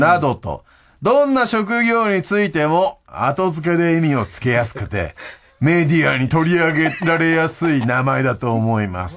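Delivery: emphatic, drawn-out read-out; listener mail reading. Acted. Host pitching a listener's baby-name idea, formal mail reading. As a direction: present it like a formal proposal.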